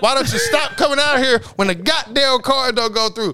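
hollering at the bug sprayer, half playing it up; retold yell. Retold yelling at the mosquito man.

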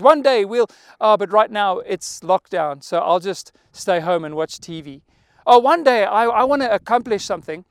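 lazy someday talk, sighing big dreams; idle dreamer. Retold or imitated. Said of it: "these people that say".

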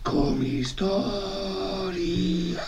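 very slow, high, eerie alien chant; alien transmission voice. Pretend. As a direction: drag each word out like an alien broadcast. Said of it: "That's the transmission we just got from the aliens".

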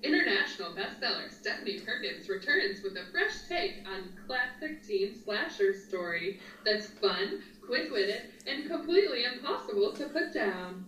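dramatic reading. Shown as a demonstration. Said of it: "dramatically read the synopsis".

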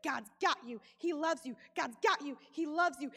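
low, gentle repeated reassurance; reassuring self-talk. Retold or imitated. Repeating to herself in labor, low gentle reassurance. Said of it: "purposely flood my mind with the words".

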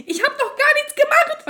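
high, slow, whiny mock-innocent voice; whiny denial. Imitating the friend whining her innocence, high and slow. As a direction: drag it out like a fake-innocent girl.

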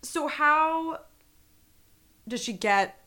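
hushed whisper of a question. Real, not acted. Host asking her cohost about the cabin scene, whispered. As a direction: whisper it like a spooky secret.

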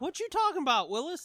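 high-pitched mock disbelief; sitcom catchphrase. Watson questioning Holmes in a recap, comically incredulous.

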